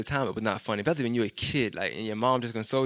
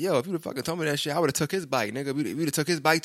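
retold anger; 5 semitones higher than usual. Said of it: "he got mad at me".

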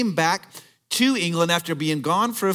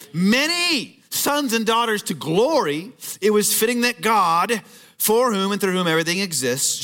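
emphatic preaching; 6 semitones higher, 5 dB louder than usual. Real, not acted. Reads scripture at preaching force.

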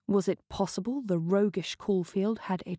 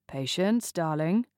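lazy drawl. Acted. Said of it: "in a lazy, practiced drawl".

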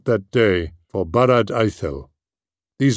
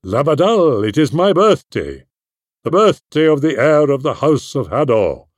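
put-on higher, louder boyish excitement; eager cry; 6 semitones higher, 4 dB louder than usual. Túrin telling Sador of his birthday, eager and raised. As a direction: call out proudly like a child with news. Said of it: "went to Sador and cried".

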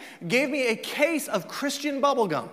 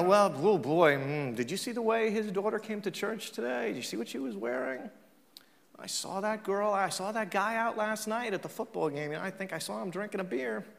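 much softer, confidential mock gossip; hushed gossip; 8 dB quieter than usual. Churchgoer tattling about who broke the rules, hushed mock gossip. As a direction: act out a churchgoer quietly passing on scandal.

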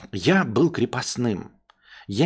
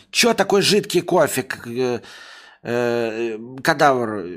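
grumpy master; 3 dB louder, slower than usual. Acted. Master complaining about coffee.

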